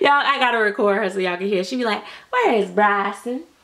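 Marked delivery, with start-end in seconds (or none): 2.3-3.4 put-on girlish country accent. Telling y'all how a girl talks, imitating Audrey's country accent. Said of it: "That's how she talk".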